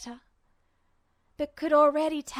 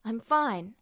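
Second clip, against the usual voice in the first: brisk. Acted. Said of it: "Ed said briskly".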